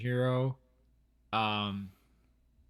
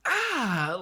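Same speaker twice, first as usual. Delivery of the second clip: imitated reaction cry; 10 semitones higher, 4 dB louder than usual. Imitating the hero's reaction to book.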